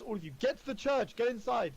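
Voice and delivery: urgent high-pitched call to the group; shouted order. Acted. Ismark orders the party into the church, shouting. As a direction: call out a command, voice lifted high. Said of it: "oh, and he shouts".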